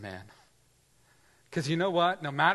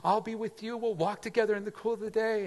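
kindly God inviting; 7 semitones higher than usual. Acted. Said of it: "he said".

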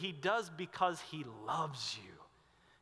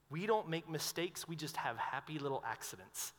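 quoting Bob Ross; 3 semitones lower, 5 dB quieter than usual. Retold or imitated. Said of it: "He used to say".

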